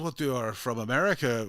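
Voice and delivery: lightly put-on Dutch accent, asking; a hint of a Dutch accent, puzzled; bad Dutch accent. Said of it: "now I'm doing a bad Dutch accent".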